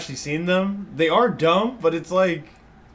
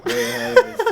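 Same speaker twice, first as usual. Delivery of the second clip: squeaky high voice; 6 dB louder than usual. Pretend. Echoing friend in silly voice.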